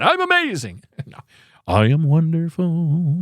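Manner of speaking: slow, hammed-up self-praise; a tongue-in-cheek brag; mock boasting. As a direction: preen like a joking show-off. Mock self-praise to his producer.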